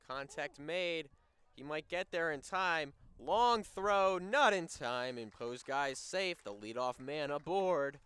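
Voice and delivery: rising to a loud, high call; excited play-by-play. Acted. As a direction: call the close play at first.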